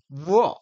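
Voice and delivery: 우어 said the Chinese way, a gliding u-eo; teacher shows the class how China reads 우어; Chinese reading. Shown as a demonstration. 중국식 발음으로 우어. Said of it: "중국은 이걸 우어 그래요".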